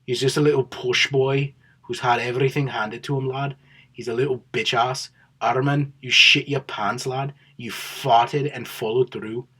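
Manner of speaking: lightly put-on Scouse accent, mocking a trash-talking fighter; a half-hearted Liverpool Scouse impression, slowing on the insults; Paddy Pimblett Scouse accent. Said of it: "that's not a very good Scouse accent".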